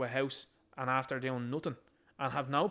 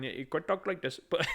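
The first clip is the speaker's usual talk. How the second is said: laughing. Real, not acted. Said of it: "I'm not gonna put on a different accent".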